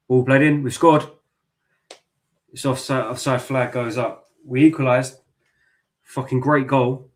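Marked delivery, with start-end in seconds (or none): 0.1-1.1 loud, rising shout of joy; real goal celebration, voice up and loud; excited goal cry. Real, not acted. Watching own team score live. 4.5-7.1 loud happy cry; excited shout. Real, not acted. Celebrating equaliser live.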